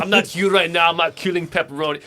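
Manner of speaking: put-on rough Austrian accent; jokey half-formed Austrian accent; bad Arnold accent. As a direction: badly imitate an Arnold Schwarzenegger phone message. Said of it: "I got a bad Arnold accent".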